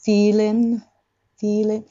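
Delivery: "feeling" said as "feelin", N lightly released; light final N. Shown as a demonstration. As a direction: tap the N lightly at the end of "feeling". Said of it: "でも軽く、". (「feeling」を軽いNで終える)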